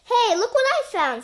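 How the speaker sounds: high, loud excited find; excited discovery. Acted. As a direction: hold it up and call out. Terry finds the underpants.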